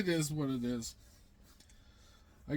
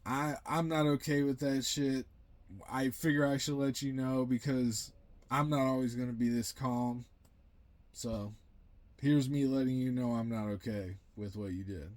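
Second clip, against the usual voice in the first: calm telling. Retold or imitated. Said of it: "I very calmly am like".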